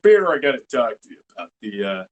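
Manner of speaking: lightly voiced Joe, jumping high on helicopter; a hint of Joe's gruff complaint, shouting one word; Joe Swanson impression. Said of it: "like, Joe".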